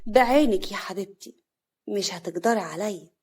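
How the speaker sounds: cool taunt; cold. Acted. Sister-in-law brushing off the threat, coldly. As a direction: dismiss the threat, unbothered. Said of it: "كريمة بكل برود".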